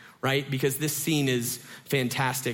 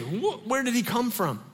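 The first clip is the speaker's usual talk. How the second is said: scared disciples; 7 semitones higher than usual. Retold or imitated. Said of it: "now they're really scared".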